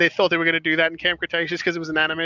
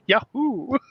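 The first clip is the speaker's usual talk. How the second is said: excited whoop; 5 semitones higher than usual. Retold or imitated. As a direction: cheer like a freed old man, then crack up laughing. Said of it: "just gets out and goes".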